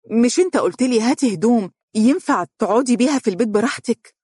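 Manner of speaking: put-on high, quick young wife's voice; Mohra's voice. A narrator's reading. Wife protesting to her husband about clothes, high and quick. Mohra answers back in story.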